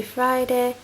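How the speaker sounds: normal talking voice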